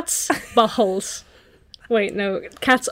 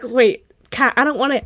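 raised, protesting voice; reluctant accomplice; 3 semitones higher, 4 dB louder than usual. Acted. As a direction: plead with the bossy cat. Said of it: "And you're like".

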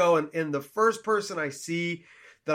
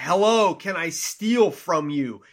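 menacing hello; 5 dB louder, slower than usual. Retold or imitated. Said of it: "must have come across more like".

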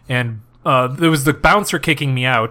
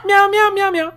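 cat voice; 13 semitones higher than usual. Pretend. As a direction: meow like a manic cat. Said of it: "'Cause I'm a cat man".

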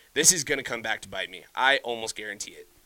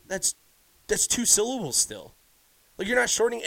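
higher and louder, incredulous scolding; exasperated rant; 6 semitones higher, 3 dB louder than usual. Retold or imitated. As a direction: re-enact ranting at the sister over "T B". Retelling own outburst at sister.

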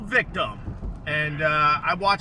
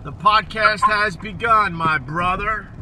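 slow, deliberate, over-articulated; over enunciating; 3 semitones higher, 4 dB louder than usual. Acted. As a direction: stretch every word out. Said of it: "Why are you talking slow like that?".

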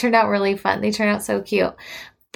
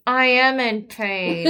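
retold protest; slower than usual. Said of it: "He's like".

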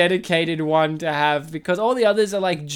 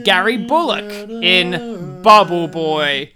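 tribute announcer; 4 dB louder than usual. Acted. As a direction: announce names like a tribute reel. In memoriam style tribute reading.

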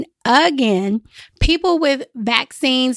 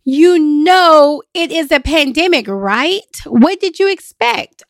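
louder exasperated outburst at complainers; mock scream; 4 semitones higher, 5 dB louder than usual. Exasperated travel agent half-yelling at complaining tourists. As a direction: let it burst out, fed up. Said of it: "I just want to scream sometimes and say".

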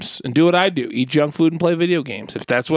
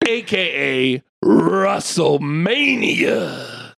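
energy drink ad; much slower than usual. Pretend. Shouted announcer intro.

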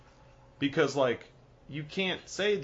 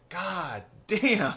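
put-on Cockney accent; 4 semitones higher than usual. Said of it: "It's called Cockney accent".

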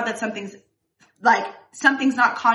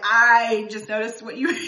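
laughing quote of husband. Retold or imitated. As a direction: giggle while confessing. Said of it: "He was like".

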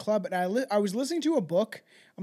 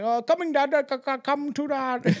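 higher, louder shaky Scottish accent attempt; fumbling a Scottish bellman accent; 7 semitones higher, 4 dB louder than usual. Host tries the Scottish ghost's accent, half-failed Scottish accent. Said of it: "I'm not gonna try my Scottish accent".

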